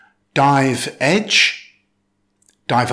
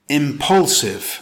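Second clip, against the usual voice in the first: "impulsive" with the stress on PUL; careful teacher's model of "impulsive", im-PUL-sive; stress on second syllable; slower than usual. Shown as a demonstration. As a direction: lean on the middle of "impulsive". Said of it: "with stress on the second syllable".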